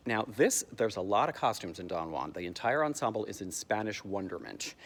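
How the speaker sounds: ordinary delivery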